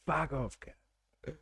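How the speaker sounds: softly imitating an Aussie fuck off; mock Aussie insult. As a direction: echo the Aussie insult under her breath. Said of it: "That should be on the, uh, citizenship test".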